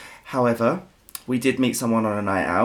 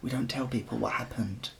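shushing; 6 dB quieter, slower than usual. Real, not acted. Hushing the co-host.

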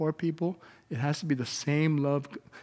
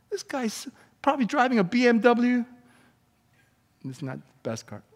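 high, loud mocking description; loud preaching; 7 semitones higher, 8 dB louder than usual. Real, not acted. Preacher loudly mocking the angry rich man in his condo.

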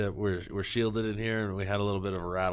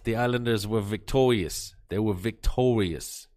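Boston accent. Shown as a demonstration. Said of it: "do it in a Boston accent".

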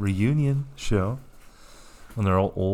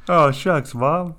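lightly voiced sick kid, higher; faking frailty; 4 semitones higher, 4 dB louder than usual. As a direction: whine it like a boy faking sick. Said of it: "the Beeve putting on a travel pillow".

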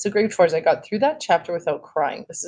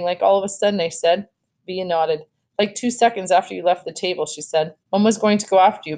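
expressive read-aloud with lightly voiced dialogue; story narration; 2 semitones higher than usual. A narrator's reading. Teacher reading a sad chapter to grade fours, expressive story narration.

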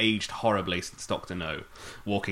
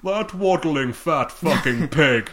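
much higher, louder, slowed, laughing Connery; mock Scottish Connery; 10 semitones higher, 14 dB louder, slower than usual. Host voicing Bond mocking the fat villain, loud Scottish. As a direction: ham up a scornful Scottish Bond.

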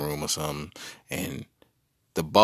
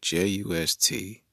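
spelled out. Shown as a demonstration. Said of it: "the word just".

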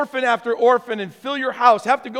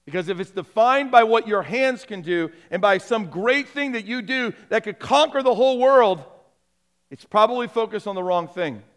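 impassioned preaching. Acted. Preaches with force.

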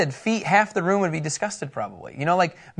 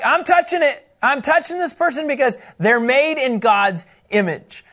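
firm Jesus voice; 5 semitones higher than usual. Pretend. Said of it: "Jesus would be like".

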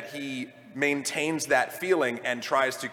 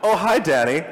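laughing; 6 semitones higher, 4 dB louder than usual. Real, not acted. Laughs at own joke.

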